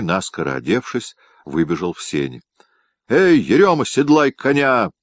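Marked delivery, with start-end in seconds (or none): 3.1-4.9 much higher and louder, calling across the yard; booming bark. A narrator's reading. Master shouting to his groom to saddle a horse, booming. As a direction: bellow the order to the groom. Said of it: "зычно гаркнул он".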